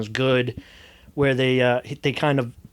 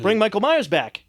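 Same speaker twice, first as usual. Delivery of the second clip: higher, insistent mock protest; fans' mock demand; 6 semitones higher than usual. Fans demanding their killer back, mock outrage. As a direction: demand it like an indignant crowd.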